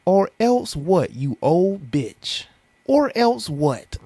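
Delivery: high, slow challenge; mock tough comeback; defiant retort. Real, not acted. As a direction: talk back to the threat.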